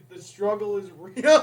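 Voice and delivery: loud mock self-pity; dramatic. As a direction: overplay the hardship.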